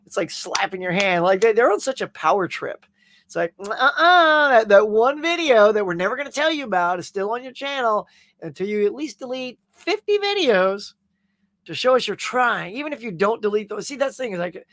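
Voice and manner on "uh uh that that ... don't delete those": mock YouTube voice. Mocking YouTube's response.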